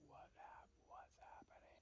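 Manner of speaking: very soft, voiceless whisper; barely audible whispered question; hushed whisper. Retold or imitated. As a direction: whisper it, puzzled and secretive. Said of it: "so we're like".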